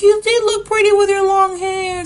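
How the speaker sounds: high mother voice, loud reproach; scolding mom. Retold or imitated. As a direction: tell the kid her long hair was prettier. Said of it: "She's like".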